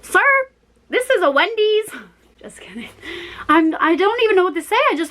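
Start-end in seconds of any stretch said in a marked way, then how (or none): 0.0-1.9 deadpan comeback. Pretend. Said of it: "I'm just like". 2.4-2.9 breathy whispered take-back; whispered aside. Real, not acted. Whispered aside after the joke.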